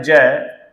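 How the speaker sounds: जय starting on a firm j; letter name pronunciation. Shown as a demonstration. Teacher showing students how the letter is pronounced, clear j sound. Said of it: "इसका उच्चारण होता है".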